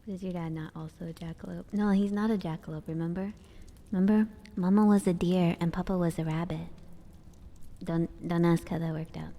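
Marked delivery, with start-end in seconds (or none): 1.7-9.3 louder explanation. Real, not acted. Playful lore explanation.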